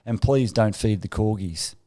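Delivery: slow, deliberate instruction; quoting the aide. Retold or imitated. Palace aide warning guests, slow and deliberate. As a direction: spell out the rule slowly. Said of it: "the last instruction that he gave us".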